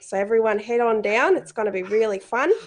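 put-on broader Australian accent. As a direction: lay the Australian accent on thicker. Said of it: "put on a more Australian accent".

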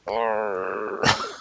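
long frustrated groan; drawn-out "urrr" of annoyance; annoyed groan. Real, not acted. Annoyed groan after taking damage.

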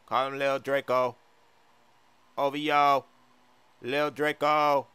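lightly sung-out, drawn speech; half sing the name; singsong rapper impression. Acted. The rapper repeats the baby's nickname, singsong. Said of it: "sounds like he's singing or something".

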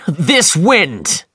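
high, loud frustrated shout; loud cry of annoyance over the gale. Acted. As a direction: yell against the roaring wind. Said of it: "he shouted".

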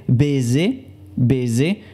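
"baiser" said bay-ZAY with a buzzing z in the middle; "baiser" with a clear z, not an s; baiser with a z sound. Shown as a demonstration. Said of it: "con solamente una S".

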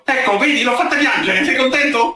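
high, pointed mocking voice, pitched well up; sneering high taunt. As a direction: jab the question at him, up high.

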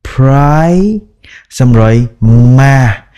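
Pri- then ma said apart with lips pressed; tách âm Pri ma; broken into syllables. Shown as a demonstration. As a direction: split Primark slowly into pieces. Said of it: "các bạn bậm môi lại".

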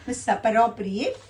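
misappropriate drawn out with an extra vowel, "misa-para-priate"; misspelled reading. Shown as a demonstration. Teacher names the wrong option, reading its misspelling slowly with the extra vowel. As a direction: slowly sound out misappropriate with an added syllable after the p. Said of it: "which is misspelled".

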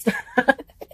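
amused laugh at her own slip. Real, not acted. Vlogger laughing after stumbling over a word, amused laugh. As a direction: laugh off the mistake.

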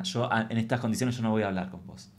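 softly preachy, self-pitying victim voice; playing victim. Comedian mocking her own victim act with the boss. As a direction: play the wounded victim lecturing back. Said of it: "yo muy víctima".

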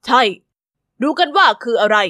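a gentle royal welcome, a touch regal; lightly voiced stately king; King Edward. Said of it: "ท่านเอ็ดเวิร์ด".

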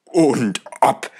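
choked, glad cry of yes; overcome, blurting his acceptance; old gentleman eagerly accepting the invitation; eager exclamation. Acted. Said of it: "rief der alte Herr".

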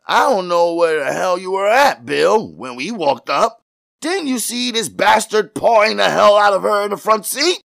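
high, heated rant at his partner; outraged cop, pitch way up; irate policeman. A narrator's reading. Officer angrily berates partner.

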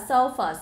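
"surface" with ER in the first syllable; er vowel. Shown as a demonstration. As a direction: say "surface" starting "sur" as in her. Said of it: "được đọc là âm er". (đọc "surface" với âm er)

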